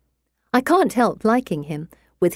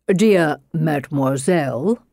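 drawn out; 3 semitones lower than usual. Acted. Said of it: "drawing out the word".

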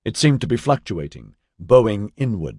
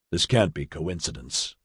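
shocked; 5 semitones lower, 5 dB quieter than usual. A narrator's reading. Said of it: "He sounded shocked, even a little frightened".

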